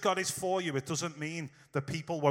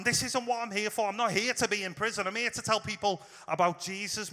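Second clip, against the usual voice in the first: a touch of exasperation, pitched up; frustrated; 4 semitones higher than usual. Pretend. Paul in prison, venting his frustration, mildly exasperated. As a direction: protest as if stuck where you never meant to be. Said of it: "He must feel so frustrated".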